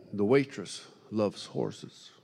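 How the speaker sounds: slow, soft divine instruction; a calm, unhurried command; voice of God. Retold or imitated. The Holy Ghost telling the preacher, slow and soft.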